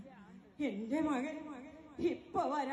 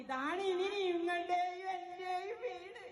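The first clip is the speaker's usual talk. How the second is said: crying. Acted. Tells mother the street is home.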